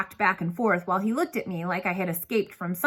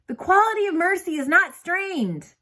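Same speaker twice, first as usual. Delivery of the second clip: lofty, much higher, like a stage actor declaiming Shakespeare; grand recitation; 10 semitones higher, 3 dB louder than usual. A narrator's reading. A boy in a cape recites Shakespeare to the bus driver, grandly declaimed. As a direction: recite it with a theatrical flourish. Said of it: "I said".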